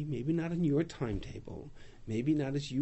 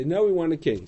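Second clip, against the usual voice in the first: insistent demand; 2 semitones higher, 7 dB louder than usual. Acted. People demand a king.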